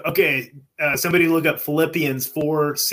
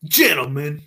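lightly voiced character greeting; a hint of a hip, suave doctor; hip Doctor Kozlov; slower than usual. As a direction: address the men in a slightly put-on voice. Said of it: "giving Doctor Kozlov a fucking hip voice".

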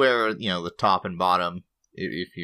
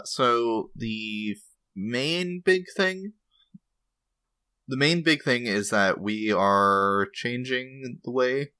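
talking through hiccups; slow speech interrupted by hiccups; hiccuping; 3 semitones higher, slower than usual. Real, not acted. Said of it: "Sorry, I'm hiccuping".

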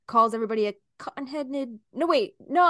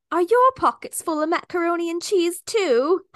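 playful; 7 semitones higher, 6 dB louder than usual. Shown as a demonstration. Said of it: "go up to somebody and say".

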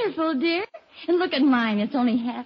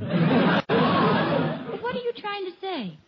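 laughing; 6 semitones higher, much slower than usual. Acted. Teasing husband, caught out.

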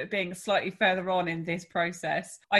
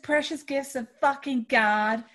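sarcastic; 5 semitones higher than usual. Acted. Sarcastic remark about kids.

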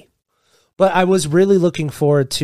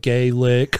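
childish mocking "Gaelic", pitched lower; mock five-year-old; 5 semitones lower than usual. Teasing friends for their joke, mock five-year-old "Gaelic". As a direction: say "Gaelic" like a silly little kid. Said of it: "went down to, like, five-year-old".

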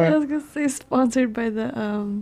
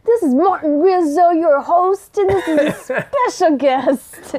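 loud, hammed-up radio-host intro; drawn-out, over-projected announcer parody; mocking impression; 4 semitones higher, 4 dB louder, slower than usual. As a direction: tease a co-host's radio voice. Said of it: "that's how you talk".

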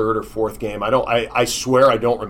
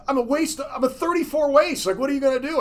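high incredulous; 14 semitones higher than usual. Retold or imitated. Retold pleading with coach.

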